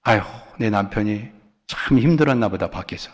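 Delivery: soft, low, sympathetic sigh of understanding; understanding wife musing softly; gentle sigh. Pretend. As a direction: shrug it off kindly, with an 아휴. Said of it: "그냥 간지러운 소리야".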